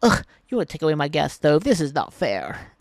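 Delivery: mocking whiner. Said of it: "One side saying".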